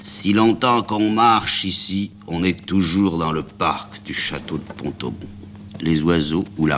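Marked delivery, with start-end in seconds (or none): 0.0-5.3 lugubre. Acted. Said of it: "Le marchand de glace lugubre".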